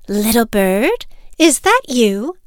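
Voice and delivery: loud, rising neighborly call; lightly voiced inquiring bird; questioning neighbor. Neighbor birds peek into Little Bird's nest, questioning loudly.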